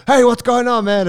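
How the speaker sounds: high, loud, beaming greeting; imitating an overjoyed Wim Hof; excited Wim Hof impression. Friend retells meeting Wim Hof, high loud beaming voice. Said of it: "And then he was like".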